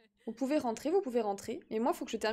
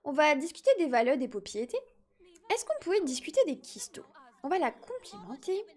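put-on baby voice; 2 semitones higher than usual. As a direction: talk like a little toddler. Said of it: "mon gage, c'est de faire une voix de bébé".

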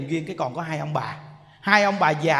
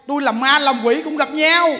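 mock lover's vow; 7 semitones higher, 7 dB louder than usual. Mocking lovers vowing death.

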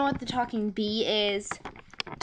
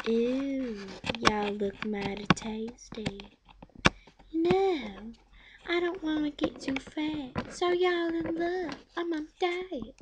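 Talking Bee impression; 4 semitones higher, 3 dB quieter than usual. Bee voice speaking to swimmers.

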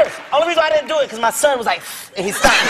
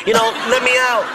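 pretending to be caught. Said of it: "I gotta act like I'm caught".

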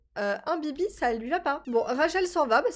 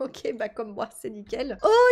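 normal talking voice

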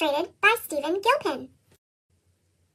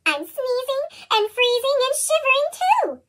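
a higher, odd snowman voice; 4 semitones higher than usual. Acted. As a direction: play the sneezy snowman.

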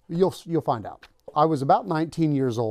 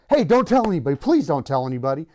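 panicked pleading; 3 semitones higher, 5 dB louder, faster than usual. Retold or imitated. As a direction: beg him, half laughing. Panicked pleading after being caught.

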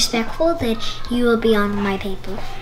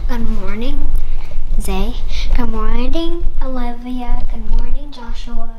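louder cheerful roll call; teacher greeting; 2 semitones lower, 8 dB louder than usual. Pretend. Pretend teacher greeting each student.

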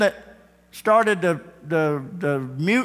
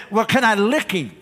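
lion asking; 7 semitones higher, 4 dB louder than usual. Acted. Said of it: "Brutus may have said".

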